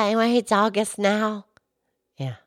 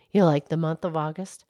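much lower, gentle cow voice; Mildred the cow; 8 semitones lower, 4 dB quieter, faster than usual. Acted. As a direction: drop the pitch low to play the old cow. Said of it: "Mildred the Moo Moo Cow".

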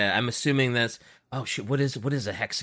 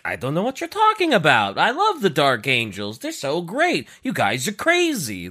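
put-on pseudo Borat accent; 5 semitones higher than usual. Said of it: "What was the accent you were giving them".

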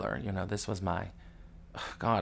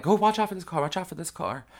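higher, louder call to watch the car; 8 semitones higher, 3 dB louder, faster than usual. Retold or imitated. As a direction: warn the driver by calling out. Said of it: "they're like".

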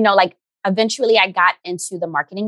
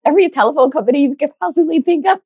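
laughing; 7 semitones higher, 3 dB louder than usual. Real, not acted. Laughing while recounting jobs.

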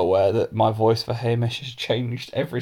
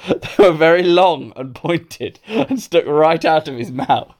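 slow, real suppressed giggles breaking the phrases; fighting laughter; 4 semitones higher, 3 dB louder than usual. Real, not acted. Reader describes the vampire teeth, holding back laughter. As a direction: try to read on while nearly cracking up.

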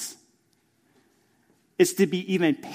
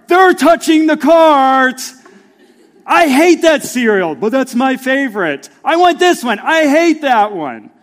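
higher, louder whiny squabbling; bickering kids; 10 semitones higher, 11 dB louder than usual. Retold or imitated. Pastor imitating his kids bickering at the store, loud and whiny. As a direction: play the kids fighting over the cart.

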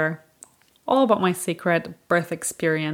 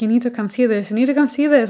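excited; 6 semitones higher, 5 dB louder, faster than usual. Retold or imitated. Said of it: "I was so excited".

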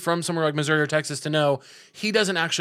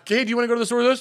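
high-pitched mock voice; mocking imitation; 7 semitones higher, much faster than usual. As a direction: parrot the roommate in a silly high voice. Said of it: "That's what you fucking sound like".

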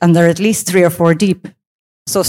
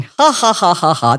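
spoken, acted-out ha-has; imitated laughter. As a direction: imitate a group bursting out laughing. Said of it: "they all burst out laughing".

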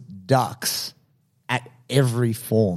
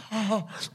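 high hammed-up laugh; 9 semitones higher, 10 dB quieter than usual. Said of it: "Like this".

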